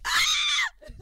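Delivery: very high, shrieky British caricature; mock British accent. Caricature of British people wanting cheese, squealed mock British accent. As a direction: squeal like a hammed-up British beggar. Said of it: "what I think that British people are".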